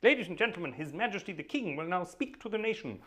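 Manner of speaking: a hint of a formal received-pronunciation announcer; old BBC announcer. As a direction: lightly announce the King like old radio. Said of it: "Remember the good old days".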